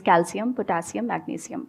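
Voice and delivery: "calcium, potassium, magnesium" slow, with s not sh; "s" pronunciation. Shown as a demonstration. Quoting what Google says, slow s pronunciation. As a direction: trail softly through "calcium, potassium, magnesium" with s sounds. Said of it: "आप Indian pronunciation Google पे check करोगे".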